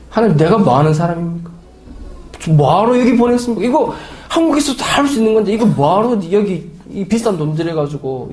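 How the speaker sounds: exasperated, complaining plea to God; irritated prayer. Retold or imitated. Pastor complains to God in prayer, irritated. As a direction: vent frustration at God. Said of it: "짜증내면서 기도하는데".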